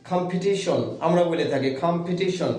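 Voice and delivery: কম্পিটিশন said slowly, with a puff of air on the stressed টি; aspirated stressed t. Shown as a demonstration. Teacher showing how stress brings aspiration in competition. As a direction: spell out কম্পিটিশন with a breathy t on the stressed syllable. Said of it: "ফ এবং ছ উচ্চারিত হয়েছে এখানে স্ট্রেসের কারণে".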